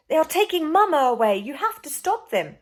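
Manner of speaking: loud, high urgent plea; shouting plea. Acted. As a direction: beg for help, urgent. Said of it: "shouted Alfred".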